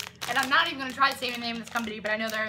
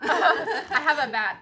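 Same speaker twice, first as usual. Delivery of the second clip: laughing; 3 semitones higher, 7 dB louder, much slower than usual. Real, not acted. Squeals while tasting gummy bat.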